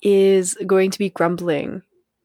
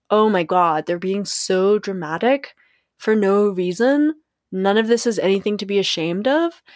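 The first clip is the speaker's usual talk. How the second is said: shame voice. Retold or imitated. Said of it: "I don't know why I'm doing this voice".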